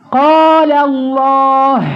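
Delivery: قال الله slow, the final h breathed out hard; exaggerated final h. Shown as a demonstration. Teacher exaggerating the h in قال الله for her student. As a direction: stretch قال الله and push the h from the throat. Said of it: "لكن لما أجيبها بقى".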